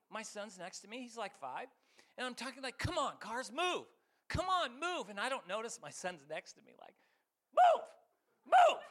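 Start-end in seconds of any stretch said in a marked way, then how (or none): 2.8-5.1 raised, urgent talking at the cars; impatient driver. Retold or imitated. 7.5-8.8 very high, piercing mock kid yell; imitating yelling child. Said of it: "He's, like, yelling at the cars".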